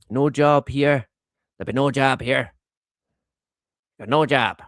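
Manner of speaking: a hint of Irish Australian lilt, hammed up; Irish Australian accent. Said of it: "That's my Irish Australian accent".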